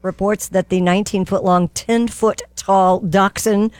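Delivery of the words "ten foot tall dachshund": careful rereading. Real, not acted.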